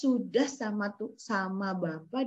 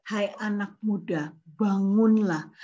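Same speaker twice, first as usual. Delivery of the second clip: commanding Jesus; 2 semitones lower, 4 dB louder than usual. Acted. Jesus raises the dead boy.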